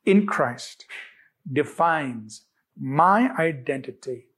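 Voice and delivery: deliberate, pausing affirmation for others to follow; emphatic declaration. Shown as a demonstration. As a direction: declare it in short, separated phrases. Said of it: "statement I want to emphasize".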